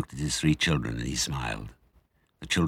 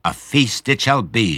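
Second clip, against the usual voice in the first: grand declaration; 6 semitones higher, 5 dB louder, slower than usual. Acted. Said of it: "she said, standing up".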